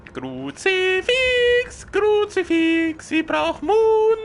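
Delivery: high, slow exasperated curse; exasperated cursing. Real, not acted. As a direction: drag out the curse in dismay. Cursing out of ammo.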